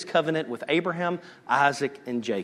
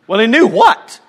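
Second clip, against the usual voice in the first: plain; 8 semitones higher, 13 dB louder than usual. Shown as a demonstration. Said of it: "repeats higher".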